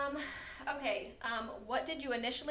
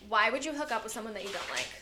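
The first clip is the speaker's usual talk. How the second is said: bitchy voice. Pretend. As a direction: read it like a catty accusation. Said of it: "I'm gonna say it in a bitchy voice".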